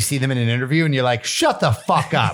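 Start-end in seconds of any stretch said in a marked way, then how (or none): 1.2-2.3 slow, drawn-out mock outrage; mock disbelief. Viewer discovering an actor is British, mock disbelief. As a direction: act stunned, pitched up and stretched out.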